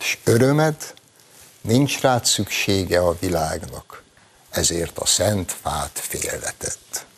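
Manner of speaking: measured recital of verse, slowing at line ends; poem recitation. Acted. Host quoting Petőfi's poem to open the segment, measured recitation. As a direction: recite it like a solemn classic poem.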